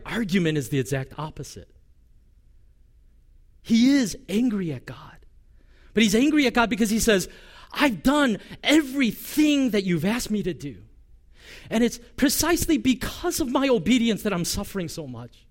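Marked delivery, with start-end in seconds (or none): 3.6-15.5 higher and louder, fast, fired up; louder, higher preaching burst; impassioned preaching. Retold or imitated. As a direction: preach it hot, as if voicing Jeremiah's anger. Preacher voicing Jeremiah's anger.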